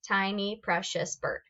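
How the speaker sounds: "Ti-ny pre-cious bird", each syllable its own beat. Shown as a demonstration. Teacher counting five syllables of "Tiny, precious bird", evenly separated. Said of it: "how many times am I clapping".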